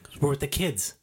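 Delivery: whispered excuse. Real, not acted. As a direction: breathe it under your breath. Whispered aside.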